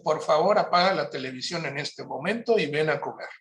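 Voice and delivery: put-on firm, direct command to the child; a kind but firm order; direct instruction. Shown as a demonstration. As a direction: say it as an order, not a question. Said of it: "Yo le puedo decir".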